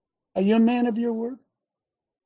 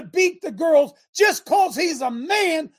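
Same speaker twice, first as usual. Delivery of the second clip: slow shout; 10 semitones higher, 6 dB louder, slower than usual. Real, not acted. Ranting, voice rising to shout.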